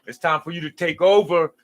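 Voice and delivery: a loud, pumped-up wake-up call; mock hype-man call. Knocking on the viewer's door, a loud mock pep call. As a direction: bang on the door and hype them up to take the crown. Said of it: "keep knocking on your door talking about".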